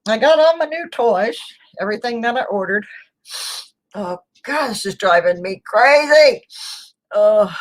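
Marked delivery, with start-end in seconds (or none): 3.9-6.4 fighting off a sneeze; strained, stifling a sneeze; holding back a sneeze. Real, not acted. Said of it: "I'm trying not to sneeze". 7.1-7.5 about to sneeze; catching a sneeze; holding back a sneeze. Real, not acted. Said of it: "I'm trying not to sneeze".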